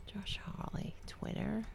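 unvoiced whisper to himself while typing. Real, not acted. Host whispering to himself while searching Twitter, whispered. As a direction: breathe the name under your breath.

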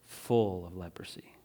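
hushed unvoiced whisper. Pastor hushing the congregation, whispered. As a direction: breathe the words out.

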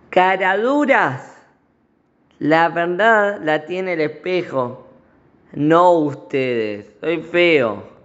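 slow, mock-angry yell at the ministers; king yelling. The ugly king yells at his lying ministers, slow mock anger. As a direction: scold them slowly, a hammed-up royal outburst. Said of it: "Ahí el rey les grita".

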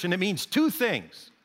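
a hint of a proud brawler, slowing at the end; mock hot-headed Irishman. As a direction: spell out the rule, proudly and slowly. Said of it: "And he says".

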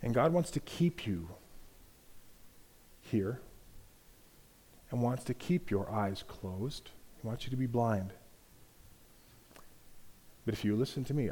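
soft, confiding tempter, coaxing and sly; tempting serpent. Acted. Serpent coaxing Eve away from God, softly. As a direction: lure them in gently, a quiet seducer.

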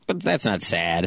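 mocking wife. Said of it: "She's like".

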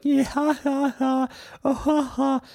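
very high-pitched phony laugh; hollow ha-ha in mock good sportsmanship; fake laughing reaction. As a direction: imitate a star forcing laughter after a roast. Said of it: "a lot of those fake reactions".

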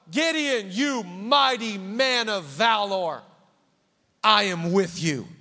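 booming angelic proclamation; proclaiming angel. Acted. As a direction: announce it grandly like an angel.

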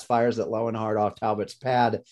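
worn-out, croaky delivery; hoarse voice. Real, not acted. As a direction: voice giving out, rough and strained. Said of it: "my voice is giving out on me".

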